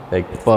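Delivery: P said falling low then taking it up; third tone dip. Shown as a demonstration. Teacher showing students the third tone, falling then rising. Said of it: "like falling and taking it up".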